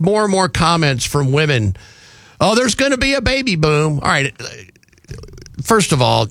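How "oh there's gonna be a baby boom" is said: mock giddy woman. Mocking women's comments.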